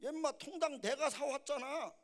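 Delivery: high, loud scolding protest; mock annoyed father. Father corrects his son over the chicken, loud annoyance. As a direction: act a dad getting cross. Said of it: "아빠가 좀 화가 났어요".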